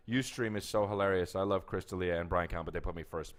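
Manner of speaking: reading aloud. Real, not acted. Guest reads a listener's comment to the host, reading aloud.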